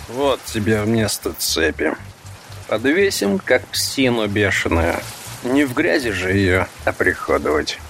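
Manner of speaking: lightly voiced menacing brute; a hint of a cruel thug; rough thug voice. Second thug speaks.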